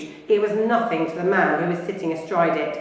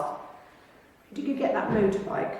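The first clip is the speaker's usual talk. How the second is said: McGonagall's voice; 2 semitones higher, 7 dB quieter, slower than usual. Acted.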